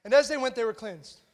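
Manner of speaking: offhand, understated reading of the verse; nonchalant. Shown as a demonstration. Preacher showing how casually the miracle is written, nonchalant. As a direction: read it as if it were no big deal. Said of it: "they're so nonchalantly in there".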